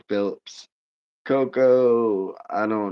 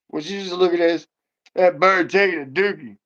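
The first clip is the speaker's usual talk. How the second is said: excited; 8 semitones higher, 4 dB louder than usual. Real, not acted. Calls family over to see picture.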